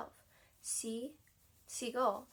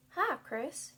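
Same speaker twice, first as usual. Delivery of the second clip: louder, higher bird greeting; first seagull voice; 4 semitones higher, 6 dB louder than usual. Shown as a demonstration. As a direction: try a first voice for the gull. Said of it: "I have to choose a different accent".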